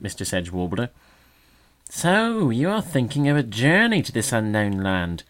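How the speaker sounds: high, loud sneering magpie; mock the bird with sweet scorn. A narrator's reading.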